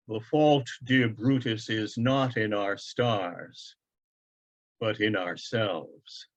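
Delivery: father quoting Shakespeare, firm and measured; firmly. Acted. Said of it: "he lowers his arms and says firmly".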